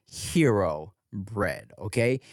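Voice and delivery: soft, casual sponsor read. Acted. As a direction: read the ad softly and chummy. Host reads a sponsor ad.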